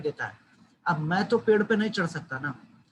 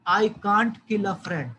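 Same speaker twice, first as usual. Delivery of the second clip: mild mock shout; 2 semitones higher, 4 dB louder, much slower than usual. Shown as a demonstration. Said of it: "Shouted the crocodile".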